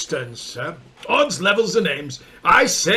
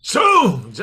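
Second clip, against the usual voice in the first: startled shout; 4 dB louder than usual. Acted. Startled oath at distance.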